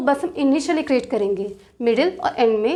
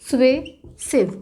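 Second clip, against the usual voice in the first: slow sounding out; much slower than usual. Shown as a demonstration. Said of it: "लेकिन sound आ रहा है स्वे का".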